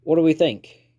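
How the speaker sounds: lightly acted Australian accent. A narrator's reading. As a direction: pitch it up in a put-on Aussie voice. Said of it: "In the Australian accent".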